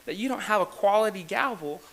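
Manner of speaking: giggling through a teasing joke; teasing a fellow president, laughing as he talks. Real, not acted. Teasing his friend about the gavel, laughing through the words.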